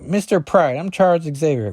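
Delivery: a touch of the polite professor; hammed-up formal greeting; lightly voiced Xavier. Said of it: "Xavier's like".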